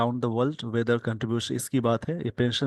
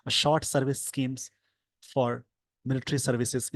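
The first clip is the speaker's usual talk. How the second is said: slow dictation; much slower than usual. Shown as a demonstration. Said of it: "slow dictation reading".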